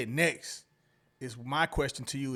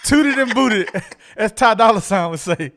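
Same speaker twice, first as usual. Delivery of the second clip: loud, high, breaking into laughter; laughing hard; 7 semitones higher, 14 dB louder than usual. Real, not acted. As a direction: crack up while saying it. Cracking up at the joke.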